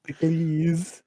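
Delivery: testicles drawn out as test-i-cleeez; mock misreading. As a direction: stretch the end of testicles into a long "kleez". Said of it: "It looks like testicles".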